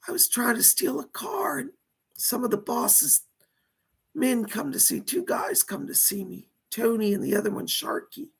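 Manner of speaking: dead mobster speaking through a medium; seance medium. Pretend. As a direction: channel a lost spirit, pleading.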